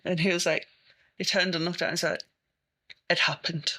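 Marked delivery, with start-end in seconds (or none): 3.1-3.7 monotone. Retold or imitated. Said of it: "This completely monotone".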